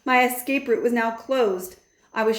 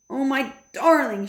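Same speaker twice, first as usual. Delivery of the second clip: relieved; 6 semitones higher, 4 dB louder than usual. A narrator's reading. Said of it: "she cried, giving me a hug".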